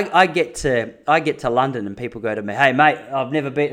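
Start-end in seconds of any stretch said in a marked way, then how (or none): 2.5-3.7 relaxed Australian "Hey, mate" with easy matey tone; Aussie accent. Retold or imitated. Australian imagining how Londoners greet him, Aussie accent. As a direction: say it like a laid-back Aussie. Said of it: "they don't say that at all 'cause they're British".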